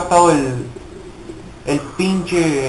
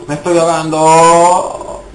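panic; 3 semitones higher, 6 dB louder, slower than usual. Real, not acted.

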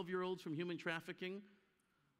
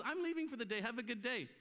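breezy bookkeeper; 4 semitones higher than usual. Retold or imitated.

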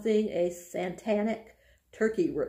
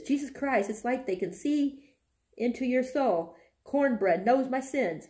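higher, mock-panicked rambling; spooked exclamation; 5 semitones higher than usual. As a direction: read it as if the turkey really scares you. Alex spooked by the turkey.

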